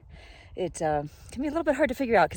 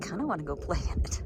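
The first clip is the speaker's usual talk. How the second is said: whispering. Real, not acted. Playful aside about the snow.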